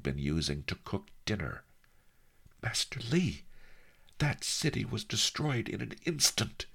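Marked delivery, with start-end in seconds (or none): 2.6-6.6 high-pitched, shocked outburst; gasped. A narrator's reading. Shaken diver reports the drowned city to his master, gasped. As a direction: blurt out the horror in a high voice. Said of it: "I gasped".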